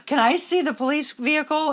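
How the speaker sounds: lightly imitated excited child; eager kid's request. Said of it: "Ollie's like".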